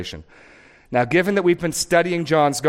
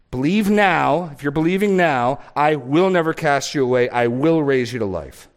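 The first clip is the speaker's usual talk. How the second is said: preached offer; 3 dB louder than usual. Acted. Pastor voicing Jesus calling the crowd, urgent and loud. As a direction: call the crowd to believe now.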